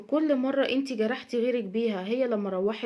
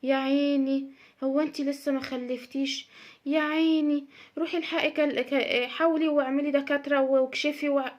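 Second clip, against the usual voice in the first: mock pity, a little higher; annoying pitying woman; 3 semitones higher than usual. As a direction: imitate a nosy woman faking sympathy. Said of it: "الشخصية السخيفة دي". (تقليد ست سخيفة بتشفق بشكل مصطنع)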